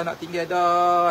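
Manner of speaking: mild mock wail, drawn out slowly; retold crying. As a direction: imitate a slow, stretched tearful lament. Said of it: "Dia menangis".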